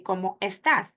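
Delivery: ¿Cómo estás? with each vowel kept apart; unlinked words. Shown as a demonstration. Teacher showing what we don't say, unlinked words. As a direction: say cómo, then a separate estás. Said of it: "We don't say".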